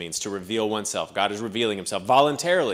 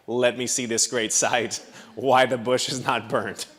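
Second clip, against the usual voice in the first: slow, drawn-out amazement; gawking at a strange sight; everyman's wondering reaction. Acted. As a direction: play up puzzled wonder with a laugh midway. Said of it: "in some language or accent, you would have been like".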